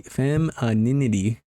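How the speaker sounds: "femininity" broken slowly into syllables; sounding it out. Real, not acted. Unsure of the word, sounding out "femininity" slowly. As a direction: carefully stretch out "femininity" syllable by syllable. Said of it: "Saying that right?".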